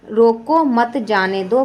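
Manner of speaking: each word set apart, slow and deliberate; slow pause demo. Shown as a demonstration. Teacher reads the example sentence slowly to show pauses. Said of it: "वाक्य में यदि "रोको" के पश्चात विराम".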